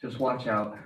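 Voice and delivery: talking around gum; words blurred by gum; chewing gum. Real, not acted. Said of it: "I have gum in my mouth".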